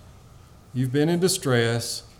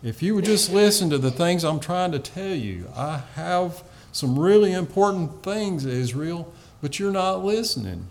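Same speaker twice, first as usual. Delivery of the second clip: pleading voice of God; 5 semitones higher than usual. Acted. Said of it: "this is a plea from God".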